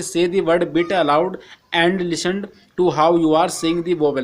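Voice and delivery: slow, careful reading of the English text; slow textbook reading. Acted. Teacher reading the textbook to Hindi-speaking students, slow and careful. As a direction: read each English phrase slowly for the class.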